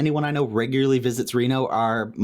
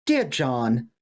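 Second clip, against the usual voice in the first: slow, higher Southern drawl on a letter; Southern accent; 5 semitones higher than usual. Retold or imitated. Lover reading a breakup letter, in a slow Southern accent. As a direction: read it like a Southern sweetheart, drawn out. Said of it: "I made this Southern".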